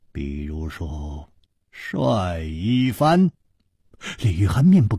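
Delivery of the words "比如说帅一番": offhand. A narrator's reading. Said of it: "楚留香淡淡地说".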